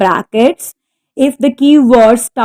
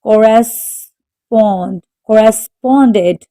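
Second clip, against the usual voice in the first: corresponded, stressed on SPOND; corresponded with the weight on its third syllable; slower than usual. Shown as a demonstration. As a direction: say Correspond slowly as cor-re-SPOND. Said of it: "The stress is on the third syllable".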